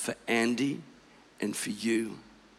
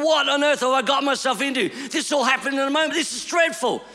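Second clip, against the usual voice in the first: panicked; 5 semitones higher than usual. Retold or imitated.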